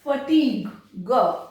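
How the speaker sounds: फटीग ending on a hard g, then the g sound alone. Shown as a demonstration. Teacher isolating the final g for children. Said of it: "वो ग pronounce होगा".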